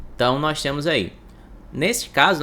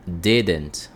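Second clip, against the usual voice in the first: "Didn't" with the stress on DI, as in DI-dent; stress on first syllable; 6 semitones lower than usual. Shown as a demonstration. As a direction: lean on the first syllable of "Didn't", lower pitch, falling away. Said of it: "A entonação nessa primeira letra". ("Didn't" com entonação forte no primeiro "di")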